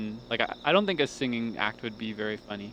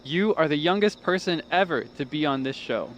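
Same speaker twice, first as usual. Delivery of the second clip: talent show judge; 3 semitones higher than usual. Retold or imitated. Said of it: "he says".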